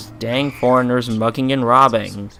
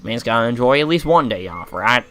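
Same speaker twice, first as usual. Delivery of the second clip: put-on Australian accent. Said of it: "I'm suddenly Australian for no reason".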